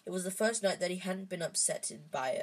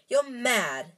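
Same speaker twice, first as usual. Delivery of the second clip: exclaiming; 6 semitones higher, 8 dB louder than usual. A narrator's reading. Ron protests Harry's plan.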